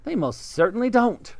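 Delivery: monkey pleased with the tree house; Mugglewump. Acted. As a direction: ask it innocently. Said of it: "cried Mugglewump".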